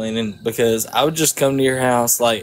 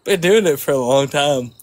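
put-on Southern accent. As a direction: lay on a Georgia Southern accent. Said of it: "I got that southern accent".

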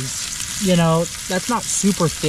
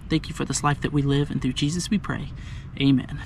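prayer; faster than usual. Acted. Says grace over the meal.

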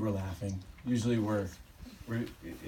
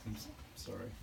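choked up; 3 semitones lower, 12 dB quieter, faster than usual. Real, not acted. Choking up during a eulogy.

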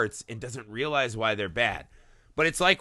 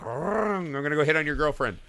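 Italian cat voice; 2 semitones higher than usual. Retold or imitated. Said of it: "the cat gets on his Vespa".

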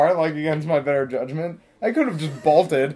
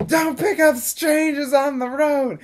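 a hint of a nagging mother, higher and slow; nagging mom; 10 semitones higher than usual. Driver quoting her mom's warning, lightly mocking. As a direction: mimic a preachy mom. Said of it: "she's always just like".

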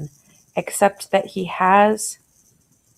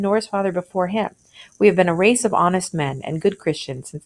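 reading a classic tale to the class, lightly voicing the speakers; story reading aloud. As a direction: read it out like a teacher sharing a story.

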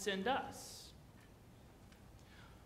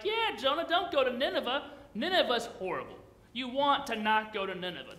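mock crowd cheering. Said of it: "the early Jews would have been like".

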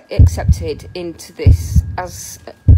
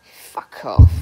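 angry; 11 semitones lower, 4 dB louder than usual. Real, not acted. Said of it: "'Cause I'm getting angry".

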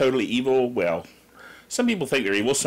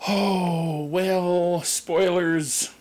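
put-on slow creaky old man voice; a quavering old-timer warning about spoilers; 6 semitones higher, much slower than usual. Mock dramatic old voice.

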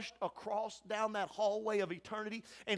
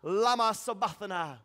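raised voice of an anguished plea; loud cry; 5 dB louder than usual. Acted. Preacher quotes Jesus on the cross, loud cry. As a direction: cry it out loud, dropping slightly at the end. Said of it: "Jesus cried with a loud voice".

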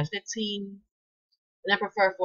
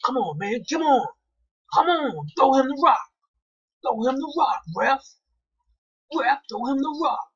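frustrated yelling; 8 semitones higher, 3 dB louder than usual. Real, not acted. Yelling at the ref in game.

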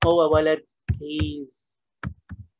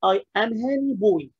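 wrong student answer; 4 semitones higher, slower than usual. Retold or imitated. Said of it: "واحد كان هيقول".

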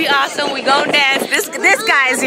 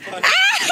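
high shrieking squeal; excited scream. Real, not acted. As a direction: scream as you leap in. Jumping into ball pit.

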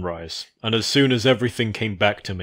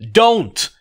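a much higher, loud yell; urgent scream; 14 semitones higher, 9 dB louder than usual. Acted. Applejack screaming at Fluttershy to stop. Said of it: "I scream urgently".

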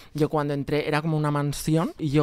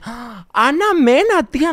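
very high, loud fan shriek; fangirl scream; 11 semitones higher, 7 dB louder, slower than usual. Retold or imitated. Greeting the singer at the costume party, loud high fan shriek. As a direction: scream the name like a starstruck fan. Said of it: "Y le dije".

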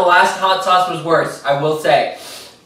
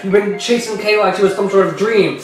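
lightly acted scolding speech to Dante; hammed-up monologue, close to own voice; melodramatic confrontation; 4 semitones higher, faster than usual. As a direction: play it as a mock-serious showdown.

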